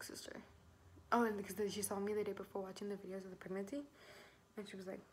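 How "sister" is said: soft, low-volume call to rouse someone; hushed calling. Retold or imitated. Waking little sister to confide, hushed call. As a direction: say it under your breath, as if waking her.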